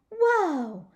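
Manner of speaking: high, loud excited shout; shouting with delight. Acted. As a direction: burst out thrilled. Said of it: "I shouted, real excited".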